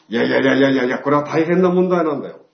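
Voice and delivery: alarmed friend protesting loudly. Retold or imitated. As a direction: stop him fast, this is serious. Friend alarmed at Tooshie name.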